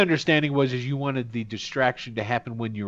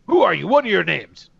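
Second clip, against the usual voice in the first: higher, louder guard challenge; orc guard demand; 5 semitones higher, 5 dB louder than usual. Acted. Orc guard demanding names from the party, raised and loud. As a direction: press them hard for names. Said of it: "he goes".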